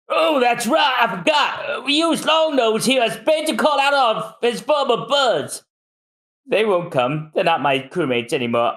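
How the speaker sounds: high, excited voices of Frankie's family; shipwright family voices. Acted. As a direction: raise the voice for each eager character. Several characters voiced in reading.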